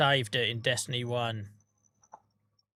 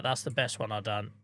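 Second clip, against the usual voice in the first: softer, quietly pleased; 4 semitones lower, 6 dB quieter than usual. Real, not acted. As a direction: say it quietly to yourself. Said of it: "I don't give myself a lot of credit".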